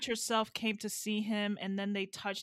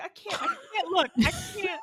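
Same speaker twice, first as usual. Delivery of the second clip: very high, can't-bear-it squeal; acted squeamishness; 10 semitones higher, 3 dB louder than usual. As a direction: re-enact recoiling from a gruesome scene. Retold refusal to look.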